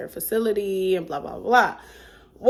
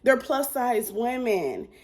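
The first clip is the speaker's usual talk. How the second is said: disbelieving drawl; 4 semitones higher, slower than usual. Retold or imitated. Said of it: "And I'm like".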